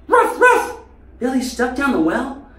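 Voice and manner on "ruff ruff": high, loud mock bark; dog barking. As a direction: bark urgently like Lassie. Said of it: "more like that lassie".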